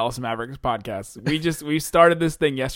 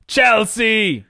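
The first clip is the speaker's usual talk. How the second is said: loud, brighter echo of the team; excited echo; 7 semitones higher, 6 dB louder than usual. Acted. Cohost echoing each team name, loud and hyped. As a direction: hype the name back.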